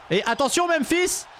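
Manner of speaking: high, slow, drawn-out ringside call; wrestling commentator. Pretend. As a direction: stretch it out like a ringside announcer. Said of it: "on fait comme si tout était réel".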